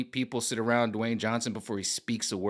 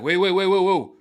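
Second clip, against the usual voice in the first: loud, higher, quick mock dithering; mock Dwayne Johnson backpedalling, loud and high; 7 semitones higher, 7 dB louder than usual. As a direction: play a celebrity dodging the question. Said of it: "he's like".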